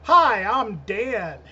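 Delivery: slow, drawn-out sing-song greeting; lightly hammed-up self-introduction; podcast intro. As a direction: stretch out a mock host hello. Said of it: "episode where it's like".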